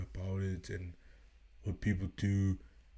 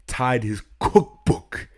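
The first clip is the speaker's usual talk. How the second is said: loud, slowed, shouting in disbelief; yelling in outrage; outraged shout; 4 semitones higher, 14 dB louder than usual. Real, not acted. Reacting outraged to coach's cookbook claim.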